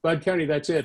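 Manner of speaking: acted-out angry ultimatum; maddest. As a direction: imitate a fed-up boss. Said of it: "he got maddest of all".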